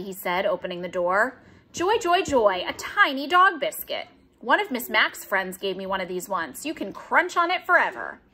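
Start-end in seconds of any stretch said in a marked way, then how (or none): 1.7-8.2 excited. Acted. Hamster delighted by dog biscuit.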